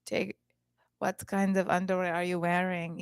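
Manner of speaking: lightly imitated Latin accent. New guy talking to her, imitated Latin accent. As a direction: put on a smooth Latin lover's accent. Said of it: "he has a really nice Latin accent".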